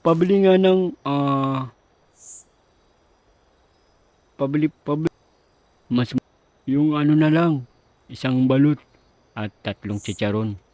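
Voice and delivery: loud customer. Acted.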